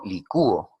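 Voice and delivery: "licúo" with the ú stressed and split from the o; stressed hiatus. Shown as a demonstration. Teacher using "licúo" in the present tense, stressed ú. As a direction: hold the ú in "licúo". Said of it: "sonaría más la vocal cerrada".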